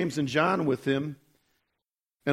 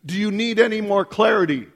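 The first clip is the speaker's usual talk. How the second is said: voice of God; 3 semitones higher, 4 dB louder than usual. Retold or imitated. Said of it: "He says".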